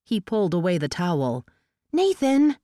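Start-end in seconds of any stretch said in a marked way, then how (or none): 1.9-2.6 high, loud cry of his name. Acted. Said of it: "she cried".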